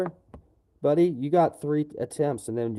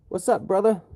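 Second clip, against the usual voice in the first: excited greeting; 6 semitones higher, 4 dB louder than usual. Real, not acted. Greeting a viewer in chat.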